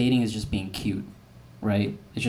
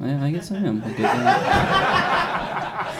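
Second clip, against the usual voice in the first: hesitant self-convincing; 8 semitones higher, 4 dB louder, much slower than usual. Retold or imitated. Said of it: "I'm like".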